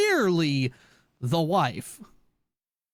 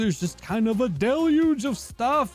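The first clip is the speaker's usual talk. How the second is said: high, bright hello to a viewer; excited greeting; 5 semitones higher than usual. Real, not acted. Greeting chatter, raised.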